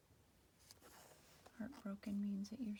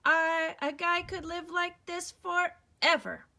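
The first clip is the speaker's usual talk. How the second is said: higher, loud, dreamy delight; blissful character voice; 9 semitones higher, 17 dB louder, slower than usual. Acted. Al dreaming of living forever on the island, blissful. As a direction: float on pure contentment.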